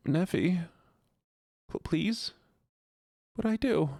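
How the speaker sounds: mock hurt. Mock hurt plea to Neffy.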